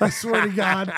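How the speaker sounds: barely getting it out between laughs; after laughing hard. Real, not acted. Laughing at the shared cramp story.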